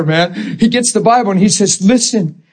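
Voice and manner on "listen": high-pitched, urgent preaching; imitated fiery preacher. Preacher imitating a new convert exhorting church, fiery preaching. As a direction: preach it with fire, pitched up and insistent. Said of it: "preaches like a preacher with fire".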